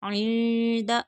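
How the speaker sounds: इंदा slow, n held as a hum; hidden nasal n. Shown as a demonstration. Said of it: "यहाँ पर इख्फ़ा होगा". (इंदा, इख्फ़ा के साथ)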